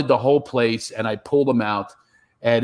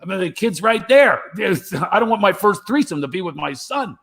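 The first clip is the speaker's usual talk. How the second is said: mock disbelief; 7 semitones higher than usual. Incredulous reply to midwife.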